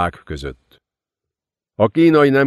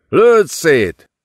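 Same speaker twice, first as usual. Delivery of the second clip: higher, louder urgent repeat; desperate yell; 7 semitones higher, 5 dB louder than usual. A narrator's reading. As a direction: push the order even harder. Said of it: "ordította a fiatal időmérnök". (még kétségbeesettebb ordítás)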